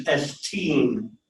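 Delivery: put-on S teen with an n closing teen; final n sounded. Shown as a demonstration. Teacher adds the optional nu, S teen ending in n. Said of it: "if you have the new on the end".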